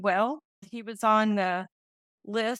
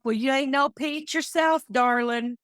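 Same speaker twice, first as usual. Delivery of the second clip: higher, lightly raised retort; mild retold yell; 4 semitones higher than usual. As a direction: imitate a husband calling back. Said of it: "he would yell back".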